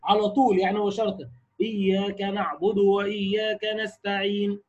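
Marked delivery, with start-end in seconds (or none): 1.6-4.6 slow recitation ending نستعين with rounded lips; تلاوة بطيئة مع الإشمام; slow ishmam recitation. Shown as a demonstration. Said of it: "وأروح ضمم الشفتين".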